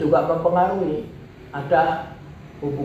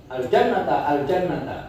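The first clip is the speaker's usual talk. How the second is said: urging call; 2 semitones higher than usual. Shown as a demonstration. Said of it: "intonasinya apa?".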